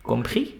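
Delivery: COMPRIS rising on the last syllable; question intonation. Shown as a demonstration. Teacher checking understanding as an example, questioning rise on Compris. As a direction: turn Compris into a question by lifting the end. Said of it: "A question".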